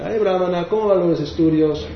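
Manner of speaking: high, sing-song taunt; mocking teaser. Villagers mocking the brahmana about his studies, high sing-song taunt. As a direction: needle him about his studies, jeering. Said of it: "Prabhupada imita a su".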